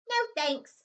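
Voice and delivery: airy mock politeness; cheeky refusal. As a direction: toss it off lightly. Harry retorts.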